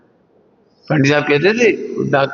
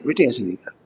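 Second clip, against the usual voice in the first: mildly spoken, a bit softer; softly; 5 semitones lower, 6 dB quieter, faster than usual. Retold or imitated. Gently correcting a child, said softly. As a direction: say it gently, like a patient first correction. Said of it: "जब धीरे से कहा".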